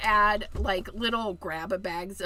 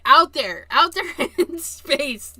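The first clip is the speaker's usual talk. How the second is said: playful emphasis; 4 semitones higher, 9 dB louder than usual. Real, not acted.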